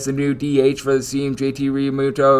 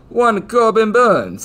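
put-on slow, higher old English accent voice; 8 semitones higher, much slower than usual. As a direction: announce the name in a grand old English accent. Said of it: "as I say that in an old English accent".

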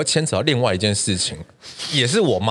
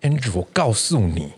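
mom scolding; 3 semitones higher than usual. Retold or imitated. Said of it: "然后就说".

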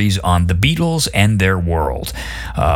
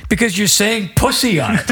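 laughing. Retold or imitated. Punchline of funny story.

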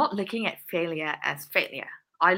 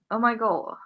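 whispered oh my God; 5 semitones higher than usual. Real, not acted. Forgetting her mother's language Malay.

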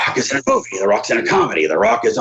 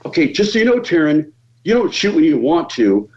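higher, lightly voiced official giving instructions; a hint of the bossy crew guy laying down rules; range officer; 5 semitones higher than usual. Crew member briefing Taryn before the shot, lightly voiced higher. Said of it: "I'm like".

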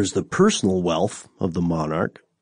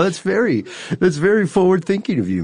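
mock courtly praise; 10 semitones higher than usual. Mock praise of sponsored monarchy.

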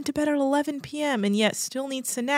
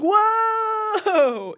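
awed dude; 12 semitones higher than usual. Retold or imitated. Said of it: "And they'd be like".

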